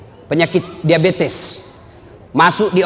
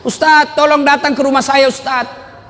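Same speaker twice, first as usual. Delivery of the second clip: pleading widow; 9 semitones higher than usual. Retold or imitated. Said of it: "ibu-ibu menangis".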